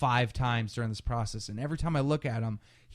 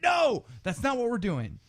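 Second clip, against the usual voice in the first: retold alarmed refusal; 10 semitones higher than usual.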